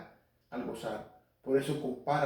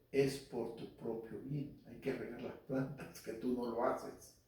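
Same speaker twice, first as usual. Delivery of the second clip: God speaking gently; 9 dB quieter than usual. Retold or imitated. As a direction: let God whisper it kindly, almost under the breath. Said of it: "casi sentimos que Dios dice".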